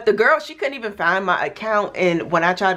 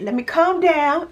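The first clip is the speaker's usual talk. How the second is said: high, giggly self-calming; laughing at herself; 10 semitones higher than usual. Real, not acted. Reining herself in for her viewers, laughing high. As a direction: laugh it off as she reins herself in. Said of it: "I'm getting a little excited".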